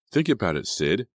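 earnest coaxing, voice lifted; urging. A narrator's reading. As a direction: urge a friend to reconsider. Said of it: "Emma urged".

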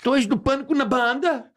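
put-on very high, stammering Portuguese kid voice; imitated Portuguese lad. Portuguese boy asks about the TV show, high stammering imitation. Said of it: "Ele falou assim".

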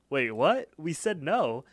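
retold puzzled protest, pitch jumping up; mock confused. Past Mordecai objects to the pie, mildly baffled.

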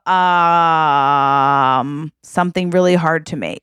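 put-on slow, deliberate child ordering fancy food; lightly voiced demanding kid, drawing out the order; Northwest. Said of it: "then Northwest says".

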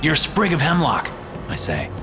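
worried questioning. Acted. Urgent questioning of Perkins.

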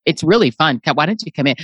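low-pitched, casual dog talking to a burglar; welcoming dog. Acted. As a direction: play a guard dog inviting someone in. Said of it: "woof dog would be like".

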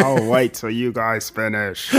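slow, lightly voiced polite monster; drawn-out, slow mock patience; patient villain. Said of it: "monster just watching them".

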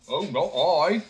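cheerful shrug of a reply; simpleton. A narrator's reading. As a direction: simpleton admitting to old man. Simpleton answers old man.

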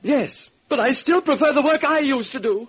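a dainty producer making small talk; fussy studio man. Acted. Producer inviting the detective along, in a high chatty voice. Totten answers.

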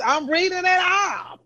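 shouts it out high, defending herself; I'm just reading it, back off; sudden high exasperated outburst. Real, not acted. Defending herself while reading picks.

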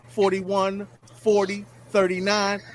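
ordinary talk, nothing marked

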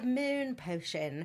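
mock British incantation, very slow; drawn-out imitation British accent. Witch at her potion, imitated in a slow British accent. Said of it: "she had a British accent".

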